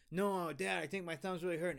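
little brother begging his dad to stop; whiny kid. Retold or imitated. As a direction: imitate a hurt kid whining. Brother pleads with stepdad.

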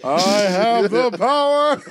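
laughing. Pretend. Laughing mock proclamation.

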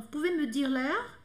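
"Pouvez me dire l'heure?" slowly, with a rise; slow French question. Shown as a demonstration. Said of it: "também poderia ser".

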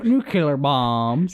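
"nuclear" slowly said as NOO-kyuh-ler; mispronounced nuclear. Shown as a demonstration. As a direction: correct them with "nucular" for "nuclear". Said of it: "you gotta mispronounce it".

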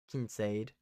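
"Kincaid" with the C read as S; soft C Kincaid. Real, not acted. Podcaster guessing at a draft prospect's name, soft C pronunciation. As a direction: say "Kincaid" as KIN-sade, with an S sound. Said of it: "I feel like that's probably wrong".

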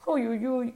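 little yelps as the paws burn; squeaking. Acted. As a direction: parrot squeaking as the flames reach him. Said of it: "couina-t-il".

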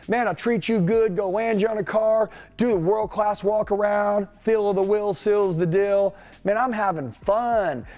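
lightly voiced pumped-up salesman, fast at first; hyped salesman example. Coach demonstrating a salesman greeting buyers, upbeat and pumped. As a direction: act the fired-up closer greeting customers. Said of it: "I'm just gonna give you an example".

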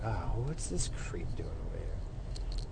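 whispering. Real, not acted. Comments on creep nearby.

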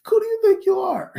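high, loud, outraged; incredulous outburst. Acted. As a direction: shriek it at the fool. Comic outburst at imagined dropout.

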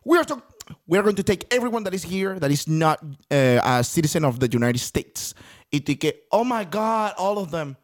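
lightly acted American officers, in accented English; mock English-speaking agents giving orders; ICE agents rounding people up. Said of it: "y dicen".

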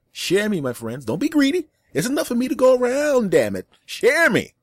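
high-pitched hammed-up indignation; swooping comic plea rising loud; mock pleading. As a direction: beg and scold listeners playfully. Mock plea to share podcast.

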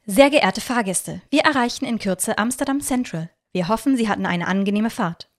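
a light touch of a train conductor on the speaker; train announcement. Acted. Train conductor addressing passengers, mild announcer voice. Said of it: "wünscht der Zugführer den Reisenden".

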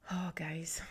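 choked-up whisper to the viewers; real teary whisper; emotional whisper. Real, not acted. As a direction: whisper it, welling up. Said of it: "I'm getting really emotional".

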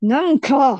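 through gritted teeth. Retold or imitated. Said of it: "歯を食いしばって、こう唇だけ動かして".

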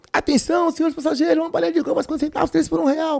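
high bus vendor's call-out; candy seller's pitch. Retold or imitated.

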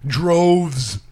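DROVES said firmly and clearly; enunciated. Shown as a demonstration. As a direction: enunciate "Droves" carefully as one full word. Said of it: "I need to enunciate better".

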